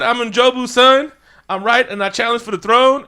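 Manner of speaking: mock villain proclaiming his birthright; defiant challenger. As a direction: announce your claim to the throne. Killmonger declaring his challenge.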